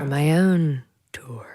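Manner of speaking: secret whispered aside. Real, not acted. Singer whispering her tour news to the host. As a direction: let it out as a hushed secret.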